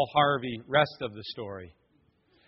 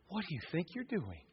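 devil's whisper; 16 dB quieter than usual. Retold or imitated. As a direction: breathe it like a tempter in the ear. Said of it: "I heard that whisper".

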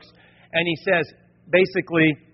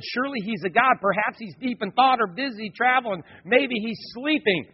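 mock-helpful jibe, pitched up; higher, needling tone; taunting; 4 semitones higher than usual. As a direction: tease them with fake suggestions. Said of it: "he began to taunt them".

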